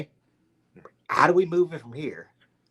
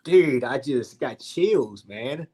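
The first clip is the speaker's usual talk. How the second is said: slow, louder, awestruck gush; starstruck schoolgirl moment; 2 semitones higher, 3 dB louder, slower than usual. Retold or imitated. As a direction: gush like a fangirl spotting her idol. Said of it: "I freaking have a schoolgirl moment".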